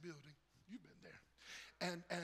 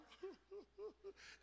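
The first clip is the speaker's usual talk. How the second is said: high, soft mock sobs; mock weeping; 14 semitones higher, 8 dB quieter than usual. Preacher left outside the train with his bags, pretend weeping. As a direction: imitate helpless little weeping sounds. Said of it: "and started weeping".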